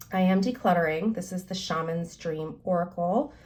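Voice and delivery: ordinary talk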